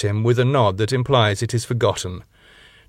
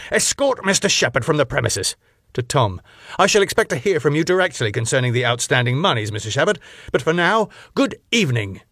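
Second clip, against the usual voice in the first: fast, clipped-off pompous dismissal; haughty club owner; 4 semitones higher, faster than usual. Acted. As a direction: dismiss him with cold formality. Max voiced, cold formality.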